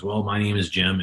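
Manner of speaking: understated, subdued introduction; mildly downcast. Retold or imitated. Downcast storm victim answering a reporter, mildly subdued. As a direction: play a storm victim, a touch down. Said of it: "he's pretty down in himself right now".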